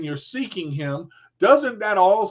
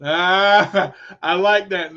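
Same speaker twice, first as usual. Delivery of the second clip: laughing; 5 dB louder, slower than usual. Real, not acted. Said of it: "laughs at viewer comment".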